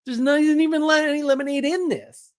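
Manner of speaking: hammed-up wonder at the sweet tea; amazed disbelief. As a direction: play up the shock at the tea's magic. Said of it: "And I'm like".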